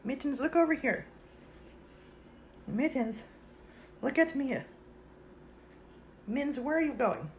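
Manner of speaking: high, sing-song voice for the cat; cat-calling voice. Real, not acted. Owner coaxing her cat Mittens, high sing-song.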